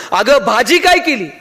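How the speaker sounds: slow, drawn-out mock shout of भाजी काय केली; mock yell into ear. Husband yelling into wife's ear, mild mock shout. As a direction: yell it slowly right into her ear, half-hammed. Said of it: "जोरात कानात ओरडला".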